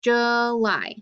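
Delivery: "July" said as juh-LIE; schwa. Shown as a demonstration. Teacher repeating the right form for students, schwa "July". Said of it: "can make the schwa sound".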